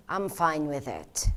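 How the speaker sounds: low, soft and calm; subdued acceptance. Shown as a demonstration. Trainer showing inflection with a fine reply, low and subdued. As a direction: say it quietly, settled and accepting. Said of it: "There's a huge difference when you say".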